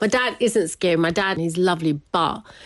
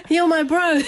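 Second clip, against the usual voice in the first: laughing quote; 11 semitones higher than usual. Retold or imitated. Son greets new brother, laughing.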